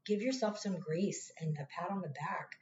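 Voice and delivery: whisper. Real, not acted. Tender advice to viewers.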